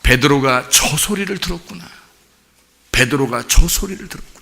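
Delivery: preacher recalling his realization, hushed; quiet realization. Retold or imitated. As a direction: murmur it as a dawning thought. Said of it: "제가 그걸 들어보니까".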